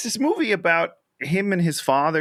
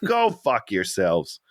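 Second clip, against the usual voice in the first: indignant rant; 8 semitones higher than usual. Real, not acted. Ranting at manipulative movie writers.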